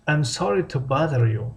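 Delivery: slow, careful model sentence for learners; slow model reading. Shown as a demonstration. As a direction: spell it out slowly so students can copy. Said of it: "teacher models the phrase slowly".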